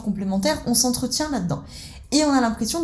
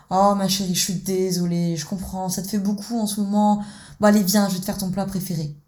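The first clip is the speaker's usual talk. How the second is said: soothing rescuer. Acted. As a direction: comfort her like a caring parent. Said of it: "parent nourricier dans sa posture de sauveur".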